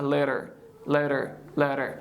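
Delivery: LATER with T tapped like a quick D; flap T. Shown as a demonstration. Teacher models the American word, LATER with flapped T. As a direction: say LATER American-style with a fast tap. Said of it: "We can say like".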